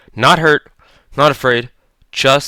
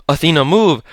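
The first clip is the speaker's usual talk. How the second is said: urgent warning; 6 semitones higher, 3 dB louder than usual. A narrator's reading. Leo warns Athena.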